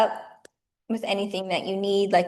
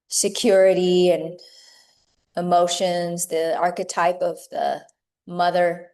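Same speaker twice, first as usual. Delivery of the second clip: measured meditation guiding with long pauses; guided meditation. Acted. Teacher guiding yoga teachers into meditation, unhurried meditative delivery. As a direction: lead them gently inward, phrase by phrase, leaving space between thoughts.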